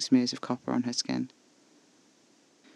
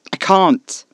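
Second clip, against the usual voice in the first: sharp, loud, high refusal; 6 semitones higher, 14 dB louder than usual. Acted. Caspar refusing Alfie's plea, loud and sharp. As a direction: shout the refusal back.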